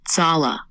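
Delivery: "Tsala" with a crisp ts onset; sharp and clean. Shown as a demonstration. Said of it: "sharp and clean".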